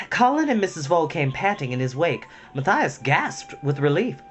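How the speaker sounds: story narration. A narrator's reading. Reading a Redwall chapter aloud to listeners, animated narration. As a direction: read the adventure out with energy.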